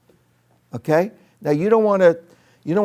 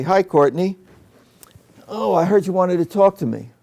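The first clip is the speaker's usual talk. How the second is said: mock administrator's raised, formal hello; administrator stance; 4 semitones higher than usual. Shown as a demonstration. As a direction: play the administrator addressing someone, pausing after the name. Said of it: "the administrator stance".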